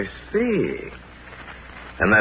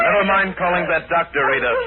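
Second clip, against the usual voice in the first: raised, higher urgent call; urgent shout; 6 semitones higher than usual. Acted. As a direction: cut her off sharply. Jethro shouts, man dead.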